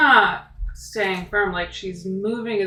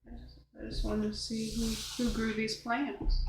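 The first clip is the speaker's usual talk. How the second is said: sheepish reply; 9 dB quieter than usual. Acted. Player answers meekly in character.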